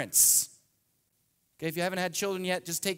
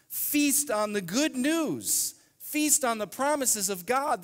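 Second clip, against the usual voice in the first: higher, slow preaching exhortation; 6 semitones higher, slower than usual. Real, not acted. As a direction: urge them to feast. Preaching climax.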